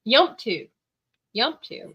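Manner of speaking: "Yump to" slurred as one word; mock redneck slur. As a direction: mash "Yump to" together country-style. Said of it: "And he's like".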